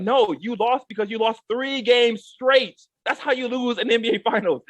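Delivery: ordinary talk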